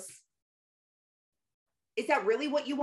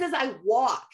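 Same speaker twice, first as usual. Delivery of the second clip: plain reading voice; 3 dB louder than usual. Retold or imitated. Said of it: "without the rap tone ... white and average".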